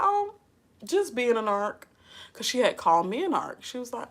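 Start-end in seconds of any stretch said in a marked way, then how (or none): 0.0-1.8 airy, high-pitched sarcastic reply; mock-casual sarcasm. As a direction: start high and breezy, feigning innocence. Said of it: "I'm being sarcastic".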